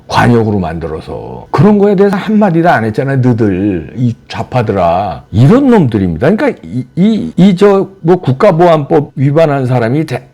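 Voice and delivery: ordinary talk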